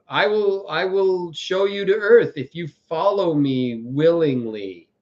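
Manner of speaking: slow, lightly acted tempter; an unhurried, drawn-out promise, lightly in character; stately mock-villain invitation; villain's solemn offer. Quotes the episode's villain luring followers.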